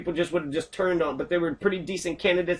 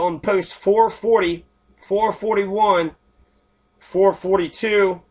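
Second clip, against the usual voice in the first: slow counting; slower than usual. Real, not acted. Reading post numbers slowly.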